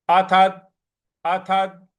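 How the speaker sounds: अथत with weight on the द; stress on d. Shown as a demonstration. Teacher stresses the द after अथ. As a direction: lean on the end of अथत. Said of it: "इस पर भी हमको आघात देना है".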